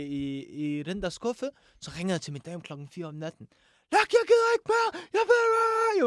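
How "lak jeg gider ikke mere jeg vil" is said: high-pitched frustrated yell; worked-up shout down the phone; retold shouting. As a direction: yell it like you've had enough. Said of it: "jeg begynder at råbe".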